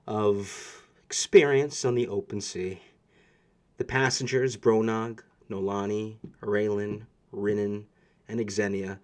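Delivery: steady read-aloud scene narration; story narration. A narrator's reading. Game master narrating the ship setting sail. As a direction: paint the voyage for the players, evenly.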